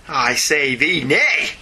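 very slow, grand pronouncement; mock solemn. Reading the listener's verdict as a mock-pompous decree.

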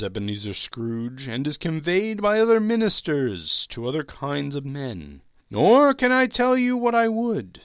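high, loud, hollow spectre; solemn ghost. Acted. Marley's ghost lecturing Scrooge, high and loud. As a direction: pronounce it like a doom.

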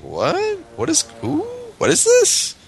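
rising, squeaking bafflement; confused reader. Retold or imitated. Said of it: "they'd be like".

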